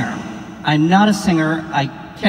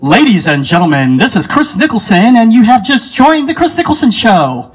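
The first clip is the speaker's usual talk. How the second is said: louder radio announcer voice; 2 semitones higher, 4 dB louder than usual. Shown as a demonstration. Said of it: "radio voice".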